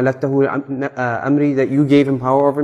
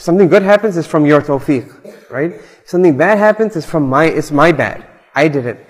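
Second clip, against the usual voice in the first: mock normal person; 2 semitones higher than usual. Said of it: "a normal person would have said".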